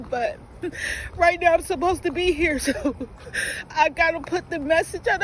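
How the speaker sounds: pushing through tears with nervous laughs; emotional outburst. Real, not acted. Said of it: "I'm very emotional right now".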